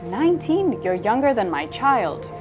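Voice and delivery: high, swooping disbelief; incredulous echo of the age; shocked. Retold or imitated. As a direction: imitate a shocked client, pitch leaping up. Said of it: "shocked by the fact".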